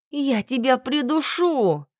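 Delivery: mock growl. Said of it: "прорычала беззлобно".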